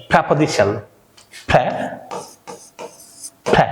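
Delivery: preposition stretched very slowly, "pra" start; slow teacher demo; slow model pronunciation. Shown as a demonstration. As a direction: draw out preposition for learners. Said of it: "try to say with me".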